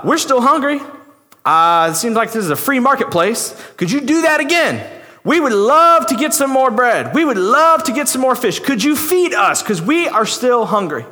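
needy crowd. Acted. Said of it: "And they go".

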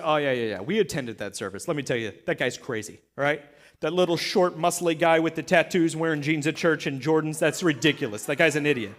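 low-pitched, scornful grumbling; venting, dismissive critic. Acted. Temple priests vent about John, low dismissive grumbling. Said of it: "I'm venting now".

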